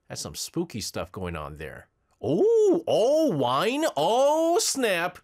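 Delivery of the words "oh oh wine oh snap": high, loud bursts of delight; squealing with excitement; thrilled. Real, not acted. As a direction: gasp it out like you just spotted treasure. Delighted by the bus pictures.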